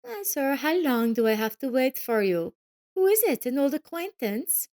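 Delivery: very high, whiny spoiled voice; capricious girl. A narrator's reading. Spoiled daughter nagging her mother to hurry, capricious. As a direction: pout and demand attention. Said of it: "held out her hand capriciously".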